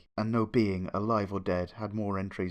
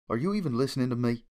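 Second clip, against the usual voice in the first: impatient Applejack; faster than usual. Acted. Applejack scolds a daydreamer.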